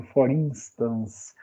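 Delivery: slow, flowing "For instance"; smooth, fluid. Shown as a demonstration. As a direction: let "For instance" glide slowly. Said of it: "Olha como é mais suave, mais fluido".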